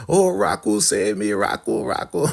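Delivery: high hammed-up cry for help; imitated melodramatic pleading; mock wail for rescue. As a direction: call out high, pleading to be saved. Mimics Elder Mother wailing for help walking off.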